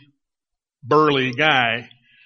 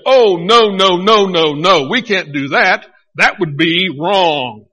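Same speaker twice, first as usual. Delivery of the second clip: loud string of refusals, slowing at the end; loud, hammed-up moral objection; emphatic mock protest; 6 dB louder than usual. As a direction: protest firmly, as if acting out someone's objection. Imagined refusal by Jacob, acted.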